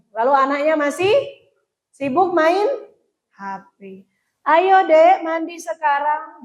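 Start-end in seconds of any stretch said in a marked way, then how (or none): 4.4-6.4 put-on calling child. Mother calling child to bathe.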